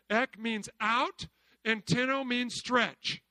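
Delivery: slow, deliberate word breakdown; slow teacher explaining Greek; slow teaching. Shown as a demonstration. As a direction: spell it out slowly for learners. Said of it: "I wanna help you with this".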